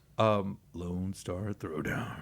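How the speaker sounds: low, slow, drawn-out delivery.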